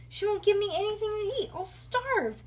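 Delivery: high, loud panicky protest; yelling child. A narrator's reading. Bean pleads with her parents not to go, high yelling. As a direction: wail on without stopping. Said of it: "Bean couldn't stop yelling".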